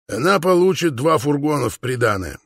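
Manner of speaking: ordinary delivery, nothing marked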